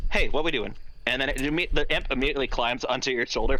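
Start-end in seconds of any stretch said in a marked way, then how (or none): 0.1-0.7 smooth talking imp. Acted. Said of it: "smooth talking and pretty annoying".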